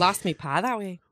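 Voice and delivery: muddled mock Minnesota-Irish brogue; half Irish, half Minnesota accent. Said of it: "from Minnesota and Irish".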